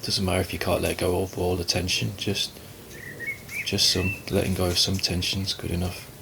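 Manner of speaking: calm, unhurried meditation guidance with long pauses; guided meditation. Acted. Teacher guiding listeners to relax and watch the breath, calm meditation voice. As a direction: ease them gently into stillness, leaving space between phrases.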